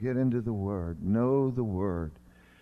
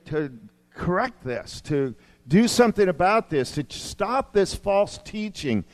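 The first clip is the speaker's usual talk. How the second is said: raised, insistent preacher's charge; emphatic preaching; 7 semitones higher, 5 dB louder, slower than usual. Acted. Preacher relaying Paul's command to Timothy, emphatic. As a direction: press the command with punched key words.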